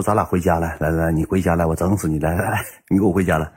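low, muted menacing summons; imitated threat. Acts out partner's threat. (压低声音模仿威胁)

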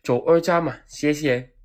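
loud, breezy order at the pump; breezy, confident shout to the attendant; cool order. Retold or imitated. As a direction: call it out like a regular. Ordering fuel, showing off.

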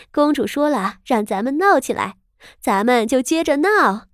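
high, laughing call to keep the fun going; laughing shout. Acted. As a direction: call out with a giggle, loud. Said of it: "她这一喊".

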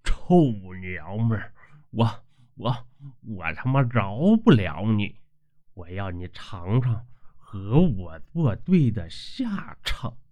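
a lightly voiced landlord seething and vowing revenge; through gritted teeth. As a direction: mutter a vengeful threat while in pain. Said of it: "咬牙切齿地骂道".

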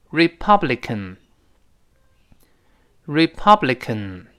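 "Republican" said slowly, every syllable distinct; slow model reading. Shown as a demonstration. Teacher modelling one word for repetition, slow and clear. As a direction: read "Republican" out slowly for learners. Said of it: "我们可以读一下这个字".

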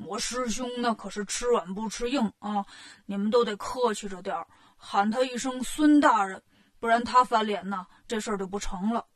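a hint of Pigsy laying down advice; lightly voiced Bajie, cautioning. Bajie coaches soldiers before they meet his brother, mildly cautioning.

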